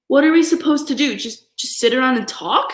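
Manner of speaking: fast, loud, high complaint; dismayed cub. Acted. Brother complains to Mama about no TV, fast and loud. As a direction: whine that this is unthinkable.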